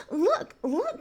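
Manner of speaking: put-on boy spots the ring and cries out; excited cry. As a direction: call her attention, thrilled. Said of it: "cried Didgery".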